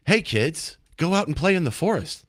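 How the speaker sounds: hammed-up singsong announcer talking down to kids; lightly mock a cheesy public service ad; mock kids' PSA, sing-song and overdone. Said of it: "nobody talks like that".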